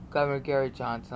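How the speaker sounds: Governor Gary Johnson slurred fast into one word; run together. Shown as a demonstration. Showing viewers the channel name, run together fast. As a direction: rush the three words as a single name. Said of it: "all run together".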